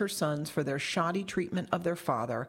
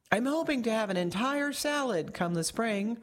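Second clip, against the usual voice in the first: bellowing; 5 semitones higher than usual. Acted.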